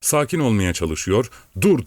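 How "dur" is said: brief, high-pitched shout; a sharp, louder burst; shouted command. A narrator's reading. Man calls out to stop the horse, shouting. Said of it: "diye bağırıyordu".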